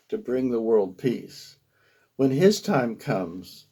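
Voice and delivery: measured poetic storytelling; poem reading. Acted. Poet tells listeners of going to see a guru, measured poetry reading. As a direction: recite it line by line with deliberate phrasing.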